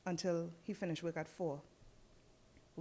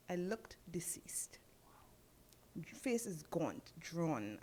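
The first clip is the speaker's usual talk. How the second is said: slow, soft, nearly whispered; grave, hushed admission; 6 dB quieter, slower than usual. Real, not acted. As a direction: let the voice drop away into a whisper. Grim recall of her own appearance.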